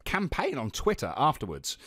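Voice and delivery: sing-song lift on campaign, not monotone; a touch of Californian lilt on campaign; lively inflection. Real, not acted. Guest teasing host's unmonotone delivery, lilting inflection. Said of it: "Lots of inflection".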